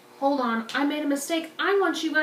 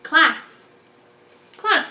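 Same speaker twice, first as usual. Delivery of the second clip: calling out; 4 semitones higher, 7 dB louder than usual. Real, not acted. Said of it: "teacher calls class to attention".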